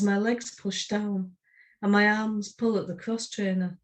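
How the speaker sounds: measured, deliberate poem reading. Acted. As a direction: read it as spoken-word verse, unhurried. Reads her poem.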